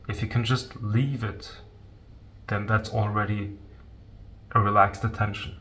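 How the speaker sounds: soft, unhurried meditation guidance with long pauses; guided meditation. Real, not acted. Teacher guiding listeners to leave their thoughts alone, calm meditation voice. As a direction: gently guide listeners into letting go.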